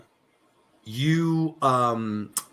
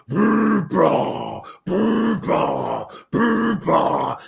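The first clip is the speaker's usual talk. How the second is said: loud mock snoring back and forth; snoring in stereo; 7 semitones higher, 4 dB louder, much slower than usual. A narrator's reading. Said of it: "snoring in loud, auspicious stereo".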